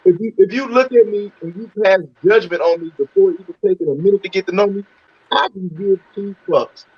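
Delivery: muffled phone line. Real, not acted. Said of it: "You sound muffled".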